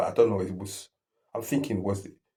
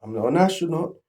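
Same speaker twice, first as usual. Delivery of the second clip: panicked; 7 semitones higher, 6 dB louder than usual. Shown as a demonstration. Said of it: "The second one".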